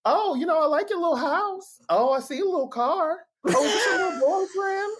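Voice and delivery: mock auntie belittling someone's stuff; condescending little. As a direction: sweetly belittle every little thing. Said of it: "diminish anything".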